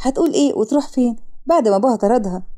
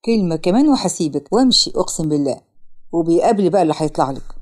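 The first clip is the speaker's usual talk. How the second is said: much lower male-role voice; warning man; 8 semitones lower than usual. Acted. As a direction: give a low, firm warning. Man warns her he will leave. (شاب بيهدد بحزم)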